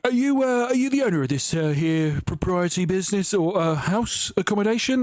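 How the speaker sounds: lightly hammed-up salesman asking about the house; doorstep salesman. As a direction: ham up a fumbling pushy seller. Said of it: "whenever these people come up".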